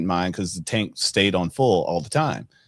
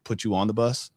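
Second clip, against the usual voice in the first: a hint of a stern father, softer and firm; stern warning; 3 dB quieter than usual. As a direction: warn the kid without raising your voice. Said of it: "he kinda gave me the tone of voice".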